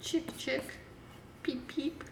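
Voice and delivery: put-on soft high baby chick peeps; lightly voiced cheeping chick; peeping baby chick. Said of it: "wanna be a little puppy or kitty".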